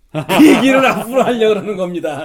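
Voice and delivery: hearty laugh through the words; real laughing. Real, not acted. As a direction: burst out laughing while answering. Laughs after joking 'coming soon'.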